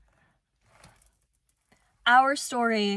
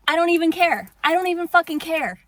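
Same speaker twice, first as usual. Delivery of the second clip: defiant shout; 5 semitones higher, 4 dB louder, faster than usual. Real, not acted. Dismissing viewers who clicked off.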